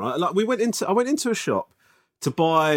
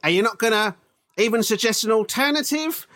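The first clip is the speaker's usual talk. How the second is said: put-on higher-pitched indignant old man complaining; grumpy old man; 6 semitones higher than usual. A customer scolds the shop assistant like a grumpy old man. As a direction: play a fussy old customer demanding an apology. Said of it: "I turned into such a fucking old man".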